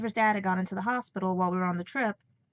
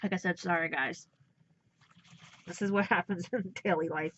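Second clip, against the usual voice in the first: apologizing through real tears; crying; 3 semitones lower than usual. Real, not acted. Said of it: "I wanted to do this without crying".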